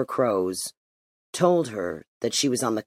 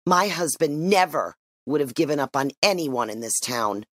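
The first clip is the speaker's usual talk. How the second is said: a bitter, mildly raised retort; spat; 3 semitones higher than usual. Acted. Mother turns at the door and spits at the chief, bitterly. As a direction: spit the words back at him. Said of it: "She turned and spat".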